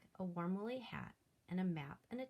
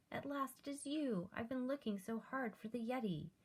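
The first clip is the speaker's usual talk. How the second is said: eager; 6 semitones higher than usual. Acted. George thrilled to find it.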